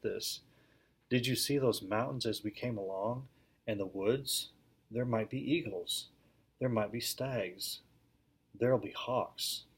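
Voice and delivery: steady read-aloud storytelling voice; lively classroom story reading; story narration. A narrator's reading. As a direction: read the tale to a class of children. Reads the book aloud to class.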